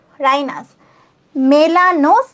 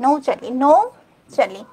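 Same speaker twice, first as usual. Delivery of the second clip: নৌচালি drawn out slowly, each syllable clear; slow pronunciation demo; much slower than usual. Shown as a demonstration. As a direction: say নৌচালি slowly so students can copy. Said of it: "ভালো করে শোনো". (ধীরে স্পষ্ট উচ্চারণ)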